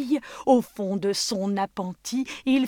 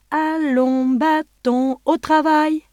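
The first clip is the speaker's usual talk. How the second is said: commanding call; 8 semitones higher, 9 dB louder, slower than usual. Acted. Giant teaches magic command.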